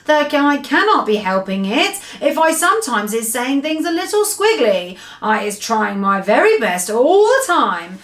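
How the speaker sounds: a gentle giant apologising for his jumbled words; BFG. Acted. The giant pleads with Sophie to forgive his muddled speech, lightly voiced.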